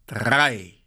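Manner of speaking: drawn-out final count; called-out command. A narrator's reading. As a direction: call it as the signal to start. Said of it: "so laut er konnte". (gedehnt gerufen)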